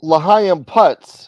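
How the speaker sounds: drawn-out shoutout. Acted.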